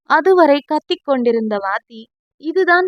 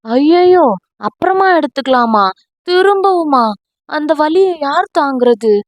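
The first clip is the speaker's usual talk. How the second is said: a louder, hammed-up howl of fake dread; mock howl of pain; 2 semitones higher, 3 dB louder than usual. Husband dreads another massage, hammed-up howl. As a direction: overplay the fear of more pain. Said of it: "என்று அலறியது".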